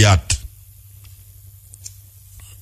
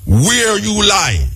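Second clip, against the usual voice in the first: slow pointed question; 6 semitones higher, much slower than usual. Real, not acted. Challenging listeners directly.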